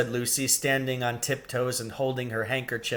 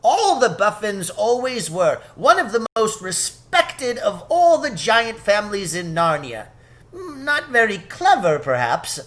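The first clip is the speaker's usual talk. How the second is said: high, lightly voiced gossipy fawn; knowing fawn; 5 semitones higher than usual. A narrator's reading. Tumnus telling Lucy about the Buffins, high and fond. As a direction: explain fondly. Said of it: "replied the fawn".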